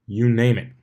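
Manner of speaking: muffled from inside a bag. Acted. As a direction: talk with your head in a sack. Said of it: "muffled through the tough fabric".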